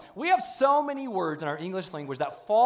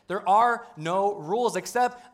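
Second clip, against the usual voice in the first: slow emphatic; 3 semitones higher, 5 dB louder, slower than usual. Real, not acted. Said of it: "I let that sink in".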